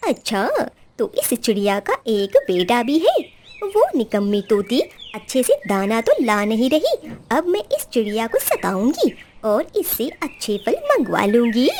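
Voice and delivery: low, plotting voice; scheming crow wife. Acted. Crow wife plots to bully the sparrow, low and scheming.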